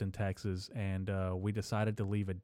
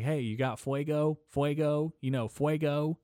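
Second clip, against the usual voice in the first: higher-pitched mock pestering question; imitating geeked-out guy; 6 semitones higher than usual. Geeked-out stranger asks couple for a lighter, lightly mimicked. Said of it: "severely geeked out of his mind".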